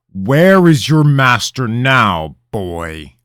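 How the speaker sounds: loud, high, slow demand; a haughty king interrogating the boy. Acted. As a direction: press the boy for an answer.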